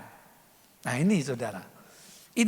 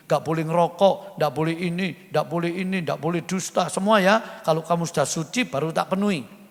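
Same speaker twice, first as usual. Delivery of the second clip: imagined demanding God; 5 semitones lower than usual. Retold or imitated. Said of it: "Tuhan nggak tanya gini".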